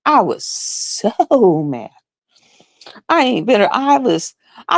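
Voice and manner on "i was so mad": laughing through it. Real, not acted.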